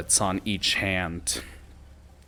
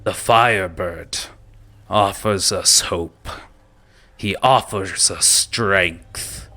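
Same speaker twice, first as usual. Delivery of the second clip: lightly voiced ogre king, building louder; Goblin King speech; 4 dB louder than usual. Goblin King rousing goblins to pillage, mildly building. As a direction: stir them up toward battle. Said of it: "Goblin King speech continues".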